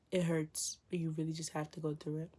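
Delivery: whispered, tender and hurting. Real, not acted. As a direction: breathe it out softly. Whispered after crying talk.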